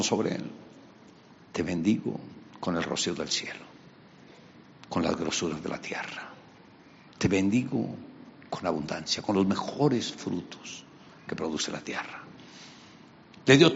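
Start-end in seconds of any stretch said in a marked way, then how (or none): 1.5-12.2 bestow it gently; solemn blessing. Acted. Isaac solemnly blesses Jacob.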